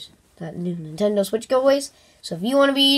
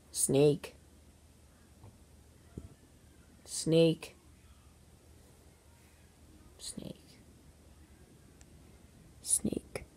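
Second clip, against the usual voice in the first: fading repeats; 5 semitones lower, 16 dB quieter, much slower than usual. Acted. Repeating the name, fading away.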